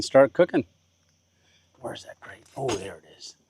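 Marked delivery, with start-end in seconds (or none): 1.8-3.4 muttering to self. Real, not acted. Muttering to self while searching.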